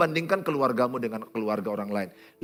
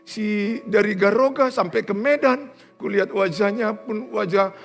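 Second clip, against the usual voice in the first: acted tearful complaint; 8 semitones higher, 4 dB louder than usual. Betrayed wife complaining about her husband to the pastor, tearful wail. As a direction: act out her heartbroken grievance, half crying.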